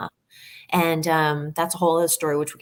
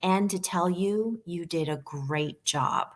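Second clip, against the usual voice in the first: slow and softer, lightly voiced Phoenix; tender praise; 4 dB quieter, slower than usual. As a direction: gently tell her she did well, taking time. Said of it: "Phoenix pipes up and he goes".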